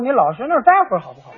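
quick muttered aside; fast, under-the-breath retort; inner retort. Acted. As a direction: rattle it off as an irritated thought to yourself. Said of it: "我心说".

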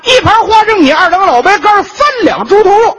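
high loud order shouted out; loud diner. Acted. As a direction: call out the order like a rowdy customer. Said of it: "您来这个食客".

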